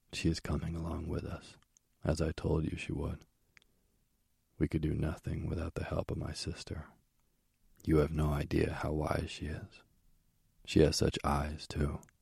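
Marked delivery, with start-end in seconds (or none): none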